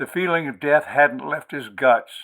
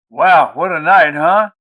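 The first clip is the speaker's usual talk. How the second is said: excited; 4 semitones higher, 11 dB louder than usual. Acted. Todd exclaims at the fridge.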